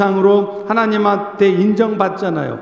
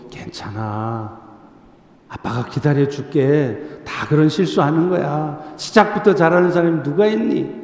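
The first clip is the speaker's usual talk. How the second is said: tender reassurance; 5 semitones lower than usual. Retold or imitated. Father reassuring child.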